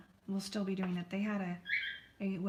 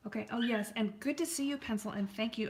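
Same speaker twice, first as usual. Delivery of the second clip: ordinary talk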